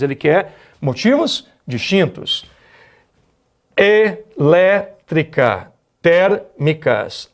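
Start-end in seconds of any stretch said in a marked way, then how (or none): 3.8-7.3 "Elétrica" and "térmicas" said very slowly, leaning on the third-to-last syllable; teacher stretching words to show stress; slow stress demo. Shown as a demonstration. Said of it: "A tônica é a antepenúltima".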